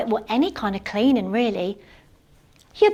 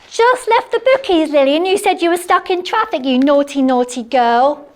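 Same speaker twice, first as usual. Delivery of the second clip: high, loud teasing; mock scolding; 4 semitones higher, 5 dB louder than usual. Real, not acted. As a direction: scold her friend playfully. Teasing friend on phone.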